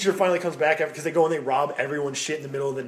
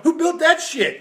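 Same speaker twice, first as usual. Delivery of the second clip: higher, louder baffled exclamation; mock bewilderment; 13 semitones higher, 6 dB louder, slower than usual. Comic voicing dim survivors stumbling on ruins, mock bewildered. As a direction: cry it out in laughing amazement. Acts out clueless forest dwellers.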